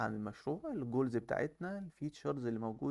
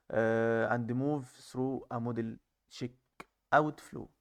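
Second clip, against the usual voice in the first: slow, careful reading of the English text; slow reading aloud; much slower than usual. Shown as a demonstration. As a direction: read each English phrase out slowly, word by word. (قراءة بطيئة بصوت عالٍ للنص الإنجليزي)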